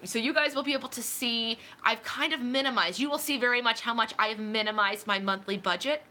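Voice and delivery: hiccups between words; talking through hiccups; hiccuping. Real, not acted. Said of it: "these hiccups are horrible".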